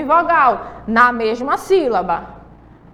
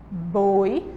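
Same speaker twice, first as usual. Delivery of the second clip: "Boi" said lower and quieter, dropped away; softer lower repeat; 6 semitones lower, 5 dB quieter than usual. Shown as a demonstration. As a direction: let "Boi" fall soft and low. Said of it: "Separou aí".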